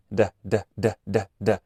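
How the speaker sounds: "d" with a puff of air; released d. Shown as a demonstration. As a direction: repeat a released "d". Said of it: "vas a sentir el aire".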